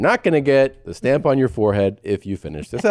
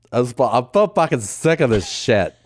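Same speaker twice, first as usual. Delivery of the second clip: mock fed-up girl-speak; imitation of a sister venting; mimicking sisters. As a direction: complain in the sisters' exaggerated vowels. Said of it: "I said it like my sisters".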